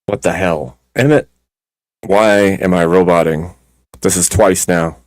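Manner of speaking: glitchy robotic distortion. Real, not acted. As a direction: voice chopped up by a bad connection. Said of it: "you're still roboting a little bit".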